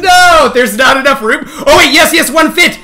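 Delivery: high, laughing relief. Real, not acted. Streamer laughing as one animal finally fits, laughing. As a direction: laugh through the words.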